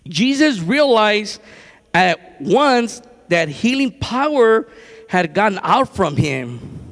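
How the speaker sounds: slow, measured Bible reading; scripture reading. A narrator's reading. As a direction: read it out deliberately, pausing between phrases. Reads the scripture aloud.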